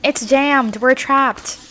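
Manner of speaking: loud, high cry of alarm; acted panic. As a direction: shout it, trapped and panicking. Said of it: "They are trapped".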